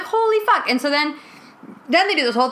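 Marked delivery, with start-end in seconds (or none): 0.0-0.7 mock shocked outburst. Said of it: "I'm like".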